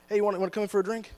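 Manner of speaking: mock casual invitation. Acted invitation to the same sin.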